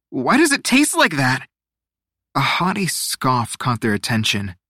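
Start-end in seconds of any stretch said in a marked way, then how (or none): 0.1-1.5 high, disgusted whine; choked disgust. A narrator's reading. Teo coughing after the drink, high disgusted protest. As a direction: complain in high-pitched, choked disbelief. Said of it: "he coughed".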